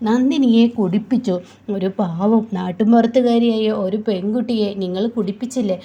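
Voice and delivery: loud wailing. Acted. Drunk Nandini wailing loudly at Surya. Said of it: "ഓർത്ത് വിളിച്ച് കരയുകയാണ്".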